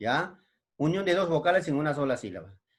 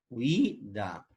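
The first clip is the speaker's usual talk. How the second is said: "huida" as a softer hui, pause, da; syllable by syllable; 3 semitones lower, 5 dB quieter than usual. Shown as a demonstration. Teacher repeating the example, "huida" in two soft beats. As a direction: glide u into i in "huida", then da. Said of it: "una sola sílaba".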